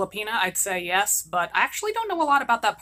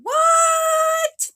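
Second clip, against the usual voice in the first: a far higher, louder yelled what; mock not hearing; 7 dB louder than usual. Daughter pretending not to hear her mother, loud fake shout. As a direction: shout it as if the question never reached you.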